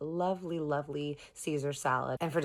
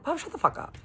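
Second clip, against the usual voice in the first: much higher-pitched mock outburst; imitated exasperated outburst; faster than usual. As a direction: retell a friend's fed-up interruption. Voices Kristen snapping at Bob.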